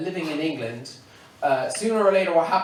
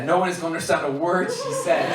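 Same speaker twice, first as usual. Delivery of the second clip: laughing. Real, not acted. Joke with laugh.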